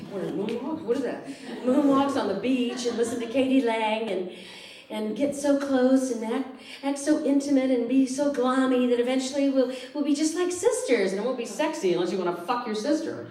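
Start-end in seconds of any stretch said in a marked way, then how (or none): 1.6-11.1 mock dreamy ad. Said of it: "personal ads for lesbians".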